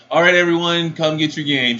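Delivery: retold cashier's call-out; mock yell. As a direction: call out to a waiting line, imitated. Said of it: "literally just yells out".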